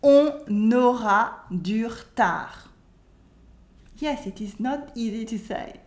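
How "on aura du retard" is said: slow "On aura du retard" as "on-naura dur-tar"; liaison and dropped E. Shown as a demonstration. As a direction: draw out "On aura du retard" for repeating.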